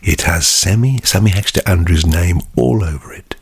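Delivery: hushed, breathy whisper with long pauses; mock-sensual ASMR product showcase. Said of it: "this is like A S M R".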